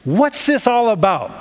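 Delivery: puzzled wondering. Acted. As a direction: ask it as someone mildly baffled. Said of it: "You might wonder".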